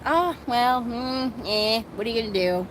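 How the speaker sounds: breezy, shrugging imitation of Vivian; imitating Vivian's dismissive shrug; mock nonchalant. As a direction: toss it off like it's nothing. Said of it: "she's so nonchalant".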